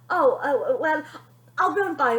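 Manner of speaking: high, loud nervous laugh; father rushing off; flustered. Acted. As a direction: bluster and flee.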